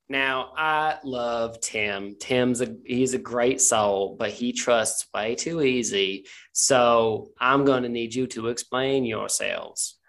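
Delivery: drawn-out, measured interrogation; slow-talking Tanya questioning. Acted. Tanya questioning the newcomers about Tim, very slowly. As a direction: stretch the words out, taking your time.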